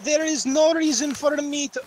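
put-on broken English foreign accent; mixed Italian Russian accent; vaguely Italian Russian accent. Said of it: "that was in a vaguely Italian, Russian accent".

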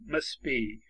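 "must be" as mus-be, no t; t dropped. Shown as a demonstration. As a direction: leave out the t between s and b in "must be".

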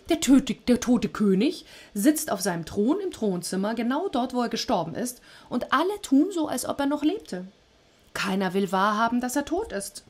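high, eerie messenger voice; shadow messenger. Acted. The dark shadows reporting to Hades, eerie and high. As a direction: report it in a strange, rising voice.

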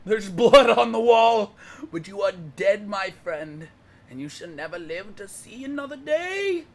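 slow, grandiose mock eulogy; theatrical, drawn-out pretend lament; mock-heroic oration. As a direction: declaim it like a hammed-up epic hero. Mock epic speech to gummy bear.

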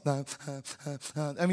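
soft, choked catching sobs, mock; imitating snub crying. Shown as a demonstration. Preacher showing the church what snub crying sounds like, soft mock sobs. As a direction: act out crying too hard to speak, lightly. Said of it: "I mean, snub crying, can't even talk".

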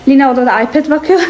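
breathless after climbing the stairs; out of breath. Real, not acted. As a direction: talk while catching your breath. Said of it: "Nefes nefese kaldım".

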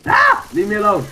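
shrieking high in panic; panicked scream. Real, not acted. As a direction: scream to be left alone. Jockey attack, screaming.

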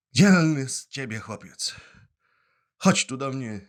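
hearty, loud embrace. Acted. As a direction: welcome the brave boy warmly. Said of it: "otworzył serdecznie ramiona".

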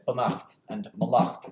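"benacht and malacht", each stressed on the final -acht; stress on second syllable. Shown as a demonstration. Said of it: "with the stress on the second".

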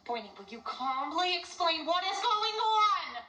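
prissy housewife, unhurried; prim wife voice. Acted.

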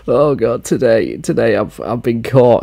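slow, halting mock sob; hammed-up self-pitying lament; fake tears. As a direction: pretend to break down over it. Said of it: "a minute to fake tears".

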